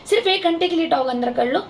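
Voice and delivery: mildly pleading, pitched a little low; recounting a polite, affectionate request to a neighbour; gentle request. Retold or imitated. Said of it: "मैंने इनको प्यार से बोला".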